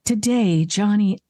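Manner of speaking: announcer read of a line; audition read. Shown as a demonstration. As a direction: bold voiceover line delivery. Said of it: "Sometimes I'll be in the studio".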